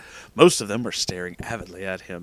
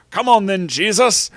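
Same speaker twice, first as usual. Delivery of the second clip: loud, raised, terribly faked accent; hearty Hagrid with a botched accent; bad Hagrid accent; 9 semitones higher, 9 dB louder than usual. A narrator's reading. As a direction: call out in a badly faked accent. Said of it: "That was a terrible fucking accent".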